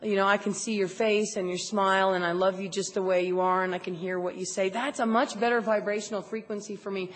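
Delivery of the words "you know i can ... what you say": lower, easy accepting voice; imagined kindly reassurance, pitched down; gentle togetherness. Retold or imitated. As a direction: say it gently, as one of the group. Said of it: "I would rather feel like".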